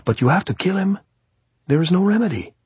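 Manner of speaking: high-pitched pressing gypsy voice; insistent. A narrator's reading. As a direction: insist there is no other way, high.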